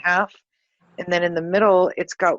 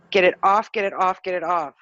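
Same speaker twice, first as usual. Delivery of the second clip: urgent demand. Real, not acted. Demanding the entity remove it.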